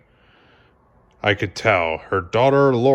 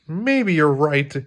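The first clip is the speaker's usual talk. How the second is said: calm concession; 4 semitones higher, slower than usual. Acted. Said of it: "he said".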